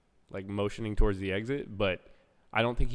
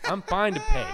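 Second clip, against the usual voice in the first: meek; 10 semitones higher, 6 dB louder than usual. Retold or imitated. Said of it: "I'm like".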